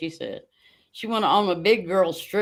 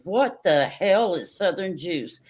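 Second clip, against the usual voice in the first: slow baffled question. Retold or imitated. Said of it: "I said".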